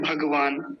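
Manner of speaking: भगवान run together as bhag-vaan; everyday Hindi pronunciation. Shown as a demonstration. Teacher showing how most people read it, Hindi pronunciation. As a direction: say भगवान with a half ga. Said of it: "लोग क्या पढ़ते हैं".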